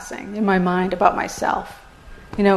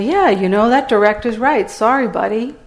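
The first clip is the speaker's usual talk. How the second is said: nice dismissal. Retold or imitated. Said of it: "in a nice way".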